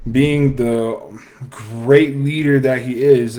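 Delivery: slow, drawn-out mock praise; super sarcastic. Real, not acted. Commentator mocking Biden as a leader, sarcastically. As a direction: lay the sarcasm on slowly. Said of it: "I say that super sarcastically".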